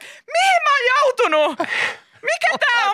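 high, loud mock-panicked yelling; hämmentynyt huuto. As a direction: shriek as if lost on the slide. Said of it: "mä huudan vaan silleen". (esitetty kimeä hätähuuto)

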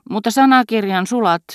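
exclaiming. Acted. Dozing wife wakes with a startled exclamation. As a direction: blurt it out as she wakes with a jolt. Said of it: "hän huudahti".

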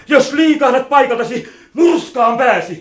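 loud angry threat. Acted. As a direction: warn him off with force. Threatening the old man. (vihainen uhkaus)

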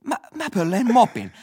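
mock drunk guy. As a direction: play the proud drunk thief. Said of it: "Ja toi".

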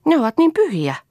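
high, hushed mock innocence; innocently. A narrator's reading. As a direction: whisper it with false piety. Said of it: "sanoi Toini viattomasti". (Toini sanoo viattomasti kuiskaten)

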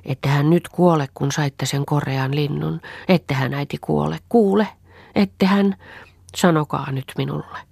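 put-on a small girl begging her mother not to die; a pleading little girl, lightly voiced. Anni pleads with her sick mother, a lightly voiced child. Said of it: "hyväili äitiään ja pyyteli".

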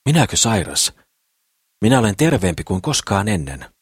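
a light, proud brag; dwarf mildly boasting of his health. Acted. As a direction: puff up a little at the idea of being sick. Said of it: "kehuu Sakris".

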